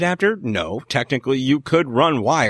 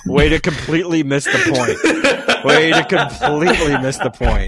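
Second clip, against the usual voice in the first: laughing; 4 semitones higher, 4 dB louder than usual. Real, not acted. Teasing co-host, laughing.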